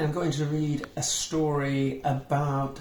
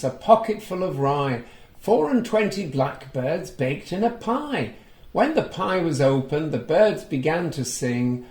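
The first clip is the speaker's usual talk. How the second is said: put-on reading to children; 2 semitones higher, 3 dB louder than usual. A narrator's reading. Reading a picture book aloud to young children, lively storytelling. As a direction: bring the story alive for little listeners. Recites nursery rhyme.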